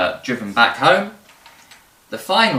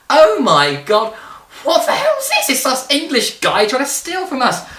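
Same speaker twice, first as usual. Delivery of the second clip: shrill hammed-up Spanish accent, much higher and louder; mock Spanish accent; 11 semitones higher, 5 dB louder than usual. Spanish crew seeing English raiders arrive, mock-panicked Spanish accent. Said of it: "in a Spanish accent".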